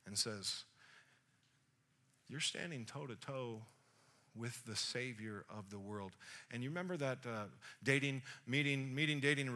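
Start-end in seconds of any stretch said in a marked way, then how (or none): 2.3-6.2 hushed, low and weighty; softly spoken, pitched down; quiet revelation. Acted. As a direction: let it land softly and low. Jesus reveals himself to the woman.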